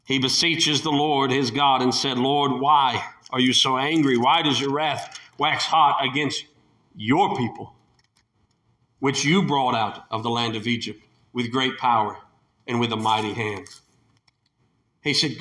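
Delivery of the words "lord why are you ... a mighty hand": pleading Moses. Acted. Moses begging God to spare the people, low and humble. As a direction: beg gently for mercy.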